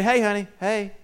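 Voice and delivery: soft, caring check-in with the wife; gentle concern. Retold or imitated. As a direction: ask gently, dropping soft at the end. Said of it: "when I just say".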